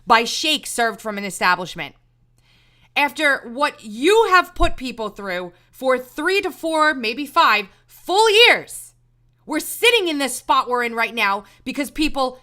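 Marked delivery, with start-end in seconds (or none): 3.0-8.9 drawn-out, loud, each word hammered; slow it down and pound the point; slow emphatic stress. Real, not acted. Emphatic rant.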